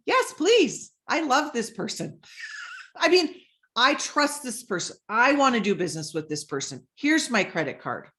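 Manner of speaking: eager buyer. Retold or imitated.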